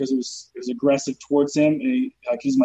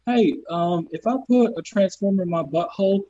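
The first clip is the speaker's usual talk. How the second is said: naive questioner; 4 semitones higher than usual. Acted. Voicing a silly phone query.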